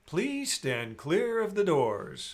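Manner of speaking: slow, announcement style; train station announcement. Shown as a demonstration. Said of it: "I'll do".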